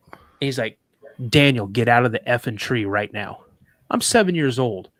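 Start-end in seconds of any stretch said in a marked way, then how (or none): 1.3-3.4 imitating dad's firm, urgent order; retold grave command. Dad with rifle ready orders his son down, grave command. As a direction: order the child out, firmly and in earnest. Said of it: "with that kind of tone".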